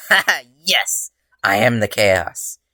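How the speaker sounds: high, loud, slow gleeful cheer. A narrator's reading. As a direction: crow it out in triumph, slowly. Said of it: "Izuku cheered".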